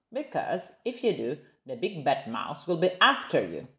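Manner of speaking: lightly voiced hushed Gruffalo dad; a hint of a hushed spooky dad. Dad Gruffalo warning child.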